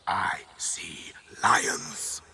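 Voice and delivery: whisper. Acted. Whispered line in speech.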